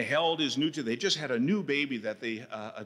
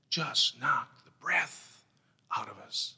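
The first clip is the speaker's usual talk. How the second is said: slow emphasis; slower than usual. Acted.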